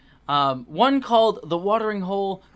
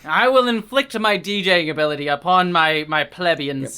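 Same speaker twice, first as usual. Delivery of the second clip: pompous lord; 5 dB louder than usual. Pretend. Mock lord threatening peasants.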